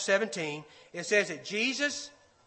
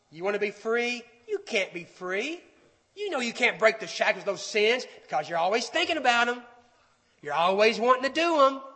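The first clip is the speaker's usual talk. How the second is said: taunting liar. Acted. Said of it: "The voice of the liar says".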